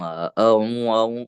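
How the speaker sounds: "U, U" slurred into the sound before it; bunyi digabung. Shown as a demonstration. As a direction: run the vowels of "eh, eh, U, U" together. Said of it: "jangan digabung-gabung". (bunyi "eh, U" digabung-gabung)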